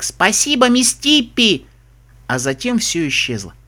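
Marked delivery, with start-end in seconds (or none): 0.0-1.6 high, drawn-out distant call; high voice calling from far away; receding cry. A narrator's reading. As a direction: call thanks from a departing boat. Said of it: "донёсся быстро удаляющийся крик".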